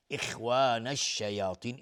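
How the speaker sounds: اخوان with a thick, full "kha"; heavy kha. Shown as a demonstration. Teacher showing an elevated letter, heavy recited kha.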